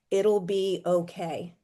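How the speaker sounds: calm unshakable promise, each word weighed; strong and certain. Retold or imitated. The voice a grieving mother heard in her baby's room, strong, slow and certain. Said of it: "this voice go very strong and certain".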